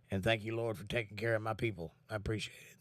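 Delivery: hushed grateful prayer to God; quiet prayer. Real, not acted. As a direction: murmur it as a sincere prayer. Speaking a prayer to the Lord.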